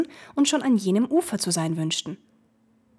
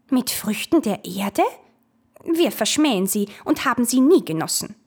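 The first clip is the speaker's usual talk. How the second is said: will-o'-wisp voice; 4 semitones higher, 5 dB louder than usual. Acted. Wisps answer the ferryman.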